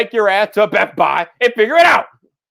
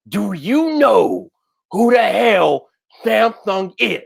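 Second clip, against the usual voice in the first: slow, ominous villain voice; dark lord; slower than usual. Shown as a demonstration. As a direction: intone it like a dark overlord. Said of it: "Let me repeat that for the people way in the back".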